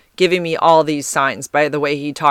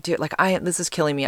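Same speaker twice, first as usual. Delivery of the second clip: frustrated; 6 dB quieter, faster than usual. Retold or imitated. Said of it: "getting frustrated".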